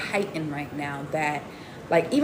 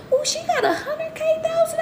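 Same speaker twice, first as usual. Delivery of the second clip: laughing mock surprise. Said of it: "and I be like".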